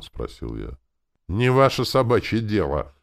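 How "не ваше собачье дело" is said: sharp, louder snapped reply; a hint of a surly knight snapping back; curt retort. A narrator's reading. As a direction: bite the words off at him. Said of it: "резко ответил".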